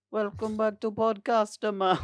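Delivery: podcast host intro. Pretend. Mock show intro.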